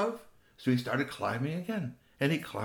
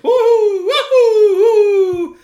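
high, loud laughing hoots; joyful owl hoots; 16 dB louder, much slower than usual. Acted. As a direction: hoot and laugh like happy owls. Parents hooting joyfully.

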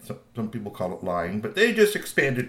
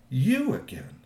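higher second scolding take; rising scold; 8 semitones higher, slower than usual. Acted. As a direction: raise it, more fed up. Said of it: "he said that three times".

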